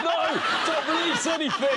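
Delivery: high, loud squeaky little voice; squeaky object voice. Pretend. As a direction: squeak it like a tiny cartoon pill.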